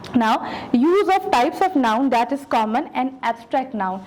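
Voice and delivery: slow, deliberate reading of the syllabus goals; formal objectives read-aloud. Acted. Teacher reading the unit objectives to her students, slow and formal.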